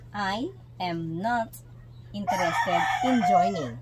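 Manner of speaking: slow, careful I am not; slow full form. Shown as a demonstration. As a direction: spell out I am not slowly. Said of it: "that is".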